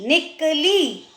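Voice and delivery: "निकली" slowly, short "निक", pause, long "ली"; syllable by syllable. Shown as a demonstration. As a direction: break up "निकली" and stretch the last ee. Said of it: "अगर हमारा उच्चारण सही होगा".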